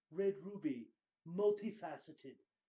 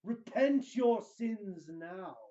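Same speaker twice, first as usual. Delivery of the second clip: admonishing; 3 semitones higher, 8 dB louder, slower than usual. A narrator's reading. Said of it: "One sign admonished".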